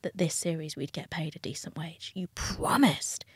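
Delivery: quiet, breathy retold plea with a touch of tears; a hint of tearful begging, retold; retold sobbing plea. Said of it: "sobbing and being like".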